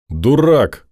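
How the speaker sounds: put-on sharp angry shout of a girl. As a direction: shout it at him in anger. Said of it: "крикнула Норрис".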